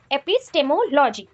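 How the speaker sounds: एपिस्टेमोलॉजी said slowly, syllable by syllable; slow, deliberate एपिस्टेमोलॉजी for the class. Shown as a demonstration. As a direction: drag out एपिस्टेमोलॉजी so students catch it. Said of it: "इसको directly हम लोग क्या बोल सकते हैं".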